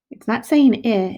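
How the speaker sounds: teacher contrasting vowel sounds; stressing not. Shown as a demonstration. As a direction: lean on not. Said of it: "it's saying its name".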